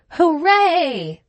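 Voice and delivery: put-on high, loud child's cheer; gleeful cry. A narrator's reading. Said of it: "she cried".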